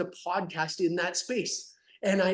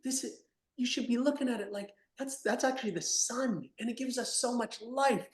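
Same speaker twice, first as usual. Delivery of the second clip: gentle parent; 6 semitones higher than usual. Acted. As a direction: coax the child back outside tenderly. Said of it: "Would you not be like".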